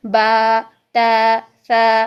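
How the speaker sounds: बा ता सा each held long on an open आ; drawn-out aa. Shown as a demonstration. Teacher demonstrates letters stretched on a long आ. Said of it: "आ की sound में पढ़ेंगे".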